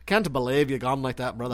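hammed-up accent, mocking an Italian mobster; mock mob voice. Making fun of friend's Italian mob voice, mock accent. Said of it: "were making fun of you ... Italian mob voice".

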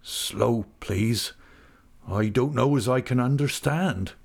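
slow, understated shaken rustic; a touch of a tremble; low, shivering voice. Acted. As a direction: plead haltingly, barely following. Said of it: "he said in a low, shivering voice".

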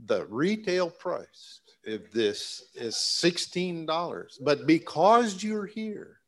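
slow, rising salesman pitch voice; infomercial pitch. Pretend. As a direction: sell it like a TV ad. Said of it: "here's the infomercial part".

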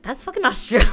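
laughing. Real, not acted. Laughing at the Aussie impression.

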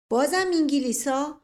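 exasperated, high and loud objection; loud protest. A narrator's reading. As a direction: burst out against the same old nonsense. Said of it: "سر و صدا و اعتراض همه". (اعتراض بلند و کلافه)

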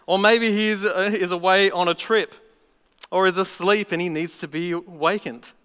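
lightly mocking Elijah. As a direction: poke fun at the absent god. Elijah mocking Baal's prophets.

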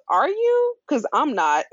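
high pitched sassy "Are you?"; shady comeback. Retold or imitated. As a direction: throw shade with a sharp jump up. Shady retort from Janito.

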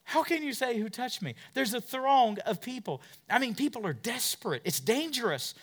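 high, incredulous disciple voice; disbelieving disciples. Acted. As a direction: protest like the baffled disciples. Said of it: "the disciples go".

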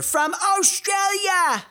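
Australia drawn out in a put-on Aussie accent; hammed-up Australian announcer; mock Aussie.

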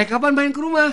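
high, lilting question; mock Japanese asker. Shown as a demonstration. Host acts out a Japanese person asking, lilting high. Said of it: "kalau ditanya orang pakai bahasa Jepang".

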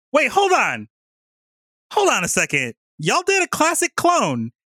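high, incredulous exclamation; mock astonishment. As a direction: halt everything in squeaky disbelief. Main beast stunned at three humans.

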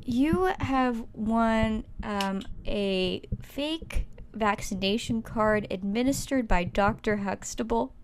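slow game-show announcer; prize announcer. Acted. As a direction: draw out the prize like a host. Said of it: "Tell him what he's won".

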